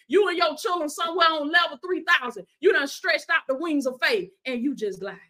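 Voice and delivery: punchy, repetitive sermon cadence; emphatic preacher rallying the flock; fervent preaching. Real, not acted. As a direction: exhort the believers with mounting conviction. Preaches about eagles and gossip.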